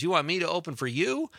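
retold amused disbelief, rising high at the end; incredulous. Steve turning down Bernie's invitation to open, incredulous.

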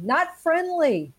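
slow, high-pitched mock yell. Shown as a demonstration. Dog owner warding off people who approach, mock yelling. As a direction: call out a drawn-out warning, playfully. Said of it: "So I've started yelling".

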